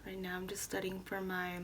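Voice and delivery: talking while chewing gum; words round a wad of gum. Real, not acted. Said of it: "sorry, I have gum in my mouth".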